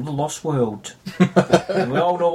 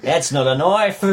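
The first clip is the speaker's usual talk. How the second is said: put-on Crocodile Dundee Australian accent; 2 semitones higher, slower than usual. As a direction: drawl it like an Aussie bushman. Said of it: "Crocodile Dundee".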